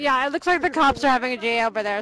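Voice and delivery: talking through popcorn; mouth full. Real, not acted. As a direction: speak around a mouthful of popcorn. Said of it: "I got my mouth full of popcorn".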